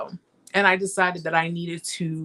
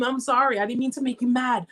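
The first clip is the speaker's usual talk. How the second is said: higher-pitched, retold frantic apologizing; mock-pleading, pitched up; pleading apology; 4 semitones higher than usual. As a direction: apologize over and over, imitating your past self. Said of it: "I'm over here apologizing to the dude".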